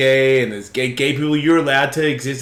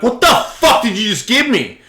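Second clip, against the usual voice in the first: high-pitched, alarmed mock demand; retold outrage; 9 semitones higher, 4 dB louder than usual. Confronting the guys who tricked him, loudly outraged. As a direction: punch it out in alarmed disbelief. Demands what he was given.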